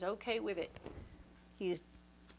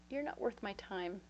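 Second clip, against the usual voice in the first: cool dismissal; 5 dB quieter than usual. Retold or imitated. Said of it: "And I was like".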